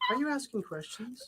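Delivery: put-on old man whining. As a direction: whine at her like a frightened old man. Grumbles protests, high and loud.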